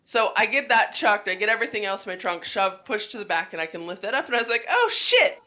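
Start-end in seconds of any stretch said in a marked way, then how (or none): 4.7-5.4 high, loud half-laugh half-sob; tearful laugh of relief; laughing-crying. Retold or imitated. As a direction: break into a laughing cry at finding it. Retelling breakdown finding the jack.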